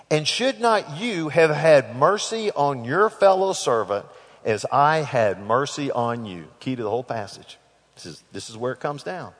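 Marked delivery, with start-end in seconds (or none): 0.1-6.5 stern demand. Acted. King demands why no mercy.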